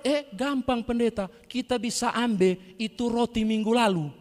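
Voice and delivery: high and loud, casually cheeky; cheeky Manado reply. Retold or imitated. Ungke answers the pastor cheekily, high and loud. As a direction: toss it off like it's obvious.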